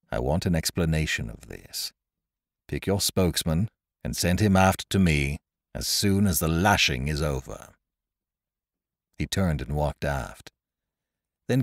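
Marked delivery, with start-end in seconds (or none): 0.1-7.7 quiet, stern order. Acted. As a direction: give orders with low, controlled authority. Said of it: "said Lowe sternly".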